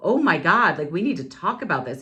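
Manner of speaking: freaked out. Retold or imitated. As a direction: imitate a man freaking out, quickening. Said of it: "He got really freaked out".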